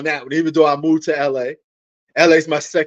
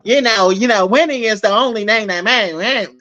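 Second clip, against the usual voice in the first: put-on buddy-buddy white guy voice, slightly raised; mock white guy; 4 semitones higher than usual. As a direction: parody a white guy talking sports. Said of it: "I'm not white".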